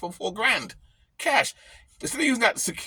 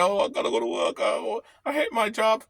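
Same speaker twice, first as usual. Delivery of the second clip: mock whining; 4 semitones higher than usual. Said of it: "That's why they're crying".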